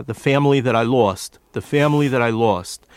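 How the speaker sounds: lightly done New York vowels in family and lost; the actor's normal accent. Shown as a demonstration. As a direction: say it in his everyday New York way. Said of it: "or what he would say".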